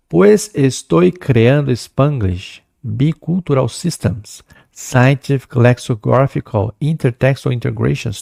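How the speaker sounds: slow, deliberate poem recital; teacher reading a poem to the class, slow and measured. Shown as a demonstration. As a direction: read the bilingual verse slowly, savouring each word. Reads the Spanglish poem aloud.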